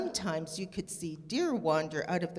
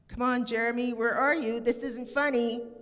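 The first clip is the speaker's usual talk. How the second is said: higher, louder anxious calls; a hint of worry creeping in; worried calling; 6 semitones higher, 4 dB louder than usual. A narrator's reading. Stella searching for Jeremy around the pond, worried calling.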